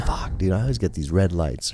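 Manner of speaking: whispered grumble under breath; frustrated mutter. Retold or imitated. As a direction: mutter it like you're stuck at a red light. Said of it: "when you get all the red lights".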